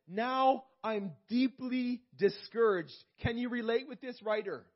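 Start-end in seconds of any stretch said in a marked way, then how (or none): 0.1-2.9 "Now I'm deeply discouraged" drawn out slowly and pressed harder; slow emphatic lament. Shown as a demonstration. Preacher voicing the psalmist's despair, slow and heavy. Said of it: "And he says".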